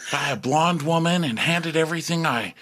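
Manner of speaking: high, wistful mock-poetic voice; mock poetic Shep. Shep musing on his life, high mock-poetic. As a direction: sigh it like a dreamy poet. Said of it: "all the poetic".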